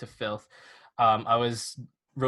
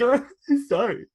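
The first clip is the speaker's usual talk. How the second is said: high, louder sarcastic sorry with a laugh; mock apology; 11 semitones higher, 6 dB louder than usual. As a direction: fake a grovelling sorry. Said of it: "be like".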